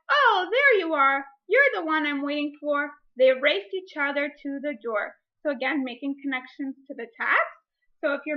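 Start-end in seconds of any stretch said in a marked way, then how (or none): 0.1-2.9 lightly voiced welcome. A stranger at the boat greeting the fox, lightly voiced welcome. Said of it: "Then someone said". 3.2-5.2 put-on reading a picture book aloud to children; story reading. Teacher reading a picture book to her class, storytime voice.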